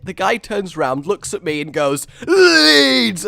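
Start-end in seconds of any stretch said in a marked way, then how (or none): 2.3-3.3 imitating the guard's loud yell back; high, drawn-out answering shout. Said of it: "we're just shouting Leeds".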